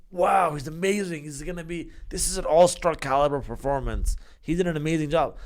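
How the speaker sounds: gushing like an impressed fan; mock amazement. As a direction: hype up the rookie, playfully overdone. Voicing fans hyping a rookie.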